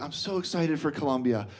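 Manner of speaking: gushing tourist, rising high and slowing; mock-sweet enthusiasm, stretched out at the end; lady from Wisconsin. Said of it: "this lady from Wisconsin was like".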